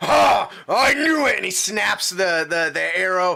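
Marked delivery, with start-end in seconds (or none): 0.0-1.4 very slow, loud, drawn-out snarling taunt. Narrating a fight, voicing the enemy just hit by an arrow: snarling. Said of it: "He snarls".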